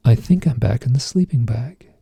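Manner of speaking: understated retold calm. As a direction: answer evenly, quite untroubled. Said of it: "very calmly say".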